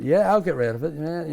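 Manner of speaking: shrugging off the mates in a mock American accent; bad American accent. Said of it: "I had an American accent".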